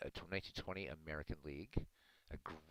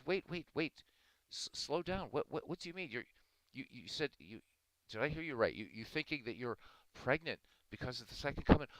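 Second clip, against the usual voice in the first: higher-pitched, stammering priest; halting, puzzled priest voice, pitched up; bewildered priest; 7 semitones higher, 4 dB louder than usual. Acted. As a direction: play a confused priest struggling to follow. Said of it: "and the priest said".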